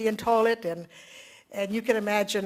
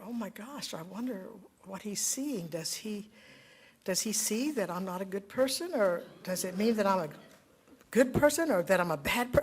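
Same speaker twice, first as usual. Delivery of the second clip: anxious inner thoughts; 3 semitones lower, 6 dB quieter than usual. Retold or imitated. Anxious inner thoughts under gaze.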